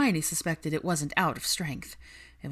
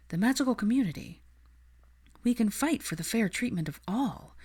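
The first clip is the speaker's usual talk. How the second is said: higher, earnest and idealistic; higher voice, passionate young woman; Hermione's voice; 4 semitones higher than usual. Acted. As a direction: plead the cause with conviction. Hermione speaks to Kingsley.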